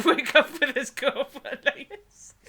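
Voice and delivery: amused sarcastic jab; laughing sarcasm. Real, not acted. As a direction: snicker the punchline.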